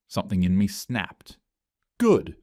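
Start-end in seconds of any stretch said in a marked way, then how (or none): 2.0-2.3 sudden high, loud burst; explosive shout. Acted. Sarah explodes at her colleagues with a high shout. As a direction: fire the word out like a blast. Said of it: "came out like an explosion".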